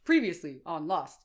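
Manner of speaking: weak attempt at a deep announcer; mock TV recap intro, not very deep. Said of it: "It's an announcer voice".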